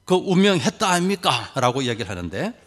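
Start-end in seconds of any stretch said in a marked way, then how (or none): 0.0-1.5 lightly imitated Gyeongsang accent; a higher-pitched take on Gyeongsang speech; Gyeongsang dialect. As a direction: quote it with a Gyeongsang lilt. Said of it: "경상도 사람들은".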